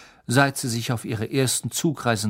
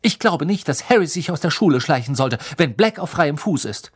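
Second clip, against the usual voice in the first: cutting tone; 2 semitones higher, 4 dB louder than usual. Acted. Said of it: "in schneidendem Ton".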